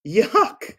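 high mock-disgusted yuck. Reader reacts to the gross gift for the kids, mock disgust. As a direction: pull a grossed-out face and squeal it.

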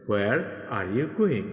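very slow, words drawn out for learners; slow tense drill read to a class. Shown as a demonstration. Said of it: "এইভাবে করে আপনি tense অনুযায়ী".

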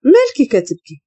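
understated cold question; coldly. A narrator's reading. Master to the tearful maid in the kitchen, coldly. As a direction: ask it with cool detachment. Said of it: "جاوبها ببرود".

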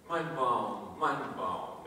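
low, falling reply; lightly voiced father. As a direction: sigh it low as a resigned parent. Father answers the tree, low voice.

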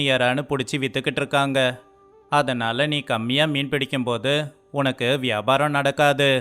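ordinary delivery

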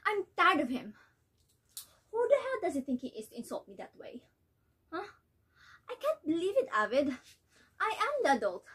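outraged mother ranting at her husband; fed up, furious and disbelieving; indignant mother. Acted. Nella rants about daughter's boyfriend.

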